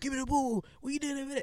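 mock, very high, swaggering show-off shout. Retelling shouting for the ball in a school football game: imitating own past shouting. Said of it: "I was shouting".

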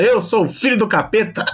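slow, drawn-out loud shout. Retelling what their mother says they shouted entering the living room, retelling a shout. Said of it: "eu cheguei gritando na sala".

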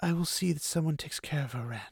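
said gently, soft-spoken. Moraine answers rand, who mourns the child; gently. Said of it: "Moraine said gently".

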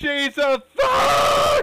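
very high and very loud shout. Announcing a tag match with joke team names: shouting. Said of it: "when you shouted "thought,"".

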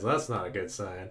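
flat, very low, quiet deadpan. Retelling a cartoon episode, the speaker imitates Mr. Krabs deadpanning. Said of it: "Mr. Krabs just deadpans".

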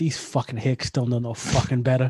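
imagined, put-on New York accent. Imagining a man selling handmade goods in Alabama, in a New York accent. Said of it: "I like to think he has like a New York accent".

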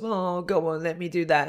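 put-on wheedling, high, babyish baby talk voice. Describing how two people talk to others, doing their baby voice. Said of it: "they go into that baby voice of".

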